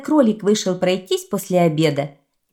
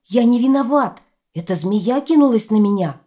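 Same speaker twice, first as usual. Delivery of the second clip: pleading boar; 5 semitones higher, 4 dB louder than usual. Acted. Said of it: "взмолился кабан".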